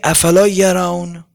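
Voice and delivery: slow, drawn-out note of regret; regretful lament. Retold or imitated. Preacher voicing God's words to the people, mildly regretful. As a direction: stretch it out with mild sorrow. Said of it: "خدا افسوس داره، با حسرت میگه".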